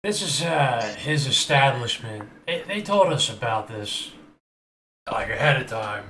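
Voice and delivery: put-on slipping Southern redneck accent. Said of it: "why am I losing my redneck accent?".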